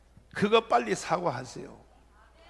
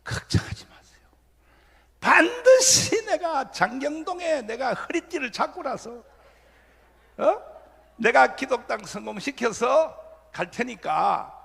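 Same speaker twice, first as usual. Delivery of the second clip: tearful farewell; 4 semitones higher than usual. Retold or imitated. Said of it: "내가 울면서 작별 인사했어요".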